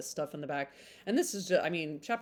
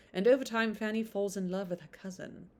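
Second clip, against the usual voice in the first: put-on blurb read on in a light British accent; 3 semitones higher than usual. Reading the blurb to viewers, still in a British accent. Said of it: "I do do British accent".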